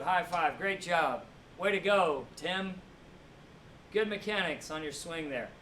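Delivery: praising coach. Retold or imitated. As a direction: pump up the player like a coach. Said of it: "your coach is always praising you".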